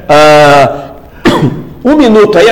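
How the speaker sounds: coughing through the words; swallowed wrong way. Real, not acted. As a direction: still clearing the throat. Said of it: "Engasguei aqui".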